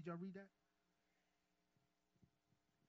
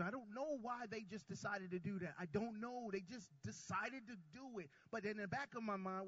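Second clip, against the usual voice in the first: higher, louder sermon voice; preaching at full force; 7 semitones higher, 4 dB louder than usual. Real, not acted. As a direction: press the point home to the church.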